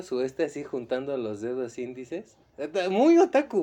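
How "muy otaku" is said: excited. Real, not acted. Emphatic exclaim.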